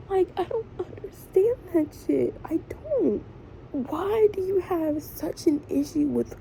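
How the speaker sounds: upset and near sobbing; real crying while venting. Real, not acted. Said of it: "I'm in here crying".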